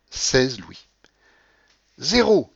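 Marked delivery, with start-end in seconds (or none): 2.0-2.5 high, loud call of the result; croupier's cry. A narrator's reading. Croupier announces the losing number, calling out. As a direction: sing out to the whole table. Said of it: "cria le croupier".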